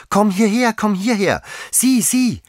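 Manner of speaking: put-on very high, loud child's cry; beside oneself. A narrator's reading. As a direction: shout excitedly for someone to come and look. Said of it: "rief das Kind wie außer sich". (außer sich vor Aufregung rufen)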